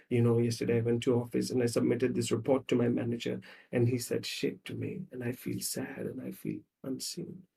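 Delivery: low, fading into a soft voice; subdued, wounded admission; hurt confiding. Acted. Acted woman confiding hurt to partner.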